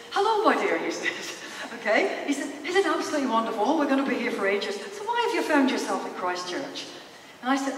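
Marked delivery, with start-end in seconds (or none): 0.1-0.8 put-on Irish accent, lively and a little louder. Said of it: "forgive my accent ... lovely Irish guy". 2.6-6.8 chatty, put-on Irish accent. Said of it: "this lovely Irish guy".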